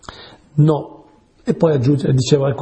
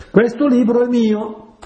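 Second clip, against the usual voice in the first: higher-pitched, half-hearted challenge; mock claim; 8 semitones higher than usual. Monk trying to start a quarrel with his brother, mock challenge.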